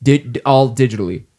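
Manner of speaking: hammed-up drill sergeant rally; rally the troops, tongue in cheek; gung-ho soldier. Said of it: "oorah, soldiers".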